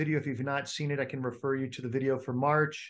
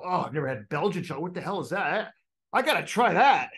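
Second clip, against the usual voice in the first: mock excited craving; 3 semitones higher, 5 dB louder than usual. To his wife, over Belgian chocolate cake, mock eager. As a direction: play the tempted guest at the party.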